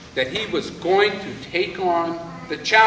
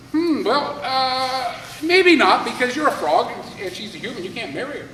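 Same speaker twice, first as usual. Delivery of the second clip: hedging king; 6 semitones higher than usual. Acted. King hedging, refusing the frog.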